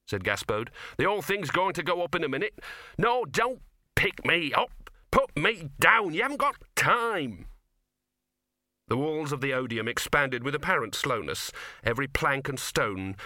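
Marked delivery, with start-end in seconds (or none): 1.0-7.5 urgent protest. A narrator's reading. Dog protesting, being carried off.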